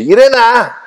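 retold shout of a name across the woods; calling out. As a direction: call her name loudly from afar. Stranger calling out in forest.

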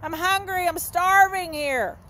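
high mewing cat begging for food. Retold or imitated. Preacher voicing his hungry cat, high begging meows. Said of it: "she'll come get me and say".

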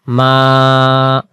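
মা held for one alif length; vowel lengthened one beat; drawn out one alif. Shown as a demonstration. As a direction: stretch the vowel in মা for one count. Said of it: "মিমের উপর খারা জবর এক আলিফ".

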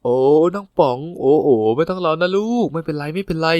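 put-on a fussing older-sister coo; comforting coddle. Older coworker cooing to comfort the sad junior. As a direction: hush him like a crying child.

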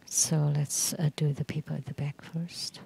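quick whispered aside to the room; hushed interpreter aside. Real, not acted. Interpreter aside during ceremony.

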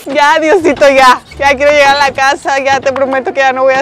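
loud pleading. Real, not acted. Pleading to God, scared.

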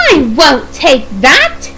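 slow, drawn-out horrified refusal. Acted. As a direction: refuse in mock horror, stretching the words. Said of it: "she said in horror".

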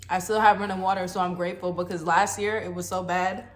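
chewing while talking; talking through a mouthful of food; mouth full. Real, not acted. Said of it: "I'm sorry if I'm chewing loud".

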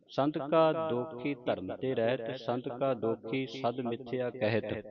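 slow, measured verse reading with drawn-out vowels; scripture recitation. Shown as a demonstration. Teacher models Gurbani for the congregation, slow recitation. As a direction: recite each verse slowly, stretching the line's long vowels.

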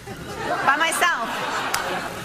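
very slow, drawn out; slow motion. Pretend. Dreamy slow-motion retelling.

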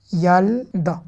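"Yalda" as "yal", then "da"; two syllables. Shown as a demonstration. Teacher demonstrating the syllable count, measured "Yal-da". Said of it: "il y a deux syllabes".

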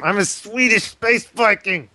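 put-on light Swedish accent, slowed down. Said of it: "can I do a Swedish accent?".

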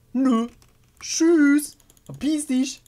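high, loud taunting goodbye; mocking dismissal. Real, not acted. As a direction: wave them off with scorn. Shooing the animatronic away.

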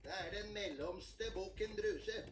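a medium-sized goat speaking; middle goat voice. Acted. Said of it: "Den var ikke like fin i målet".

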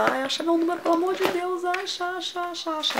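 high, pleading voice begging; mock-frantic plea; desperate pleading. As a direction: beg the shop girl to find the size. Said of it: "eu fiquei louca".

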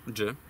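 "Dży" said as a short voiced affricate; missing sound dży. Shown as a demonstration. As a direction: add "Dży" crisply. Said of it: "bo jednej mi brakuje". (krótkie dźwięczne "Dży")

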